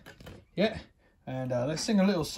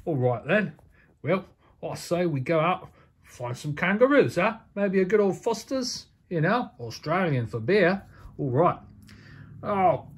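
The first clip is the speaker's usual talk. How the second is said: Outback Jack. Acted. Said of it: "I'm Outback Jack".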